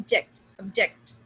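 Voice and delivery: "ऑब्जेक्ट" with JECT punched; loud JECT as in the verb "ऑब्जेक्ट"; verb stress. Shown as a demonstration. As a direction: hit the second syllable, JECT, of "ऑब्जेक्ट". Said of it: "किस पे stress करते हैं".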